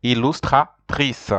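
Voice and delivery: "Illustratrice" slow, with a well-sounded R; slow French R. Shown as a demonstration. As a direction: teach the R of "Illustratrice" slowly. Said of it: "R is well pronounced".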